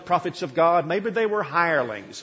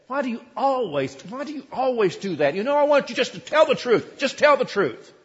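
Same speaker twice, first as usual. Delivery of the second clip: higher, louder, fed-up demand; exasperated king; 8 semitones higher, 4 dB louder than usual. Acted. Ahab demanding the truth from Micaiah, exasperated and raised. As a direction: scold him for always doing that.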